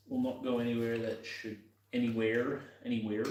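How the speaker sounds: slipping into a slight American accent. Real, not acted. Mechanic muttering about a stubborn part, sudden American accent. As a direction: let a touch of American creep in. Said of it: "developed a sudden American accent".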